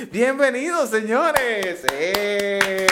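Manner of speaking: high, drawn-out showman's greeting; rousing welcome. Pretend. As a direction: hail the crowd with a long, high cheer. Host hails listeners aboard the show.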